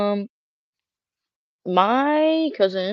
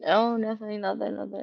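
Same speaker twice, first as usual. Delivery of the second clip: quiet innocent denial; 5 dB quieter than usual. Retold or imitated. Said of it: "I'm like".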